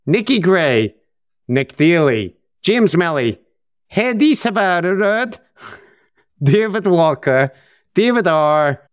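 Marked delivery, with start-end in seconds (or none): 3.9-5.4 lilting mock Norwegian, higher pitched; Norwegian accent. Host reading out patron names, put-on Norwegian accent. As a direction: read the name with a Norwegian swing. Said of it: "I can't stop doing the Norwegian thing".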